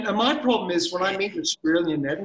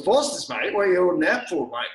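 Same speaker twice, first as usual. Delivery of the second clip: mock Australian; 2 semitones higher than usual. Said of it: "you go and order Foster's".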